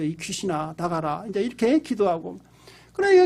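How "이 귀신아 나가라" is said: low, softened retold command; silent inner command. Pastor secretly praying at the meal, low inner voice. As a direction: say it under your breath, as if thinking it. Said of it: "먹으면서 속으로는 그러죠".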